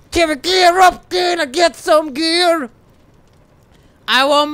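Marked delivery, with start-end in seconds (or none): 0.1-2.7 louder and higher ask. Shown as a demonstration. Gamer pestering companion for gear, louder insistent ask. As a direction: raise "Can we gear up?" higher and louder, pushing.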